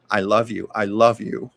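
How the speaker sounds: leaning on LOVE in "I love you"; varied emphasis. Retold or imitated. Mother saying it different ways to Desi, stress on LOVE. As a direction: stress the word LOVE each time, retelling. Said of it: "putting emphasis on it".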